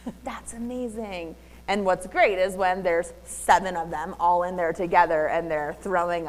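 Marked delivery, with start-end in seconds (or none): 0.1-1.3 breathless laughing whoa; amazed laughing. Retold or imitated. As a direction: gasp it out in delight. Retold amazed reaction, laughing.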